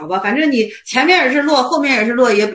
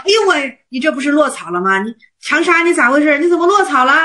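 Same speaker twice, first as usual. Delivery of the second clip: flustered alarm; 3 semitones higher than usual. Retold or imitated. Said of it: "元悟克勤一看慌了".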